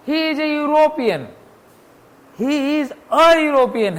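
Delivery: slow, carefully spaced example sentence; slow example reading. Shown as a demonstration. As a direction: read each word slowly for the class. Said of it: "एन European नहीं है". (धीरे-धीरे उदाहरण वाक्य पढ़ना)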